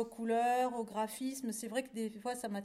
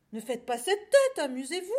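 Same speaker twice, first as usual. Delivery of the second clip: loud, high, eager little lamb; excited urging; 4 semitones higher, 9 dB louder than usual. A narrator's reading. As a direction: chivvy a moping friend into fun. Lamb urges cow to have fun. (agneau enjoué qui encourage)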